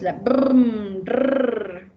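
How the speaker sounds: "brrm" then "rrr" with a long trilled R; rolled R drill. Shown as a demonstration. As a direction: trill the R like a motor. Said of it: "Los sonidos". (erre vibrante alargada, "brrm", "rrr")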